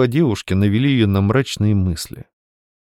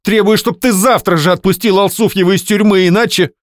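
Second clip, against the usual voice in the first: threatening demand; 11 semitones higher, 6 dB louder than usual. Acted. Wife threatening husband.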